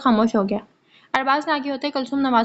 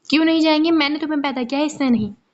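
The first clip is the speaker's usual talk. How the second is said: raised, heated protest from a mother; losing her temper; 3 semitones higher than usual. Acted. Mother losing her temper with her son, raised and heated. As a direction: snap back at the son in anger. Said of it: "وہ آپے سے باہر ہونے لگی تھی".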